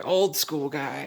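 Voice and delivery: slow, lightly voiced gruff old-timer; a hint of a tough old-school guy, slowed down. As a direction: put on a mock old school guy, drawn out. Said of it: "Consider me a guy right now".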